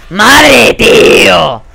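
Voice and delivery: loud, high, drawn-out yell; real raging gamer shout; exasperated shout. Real, not acted. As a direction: bellow in real frustration at the game. Yells at getting killed.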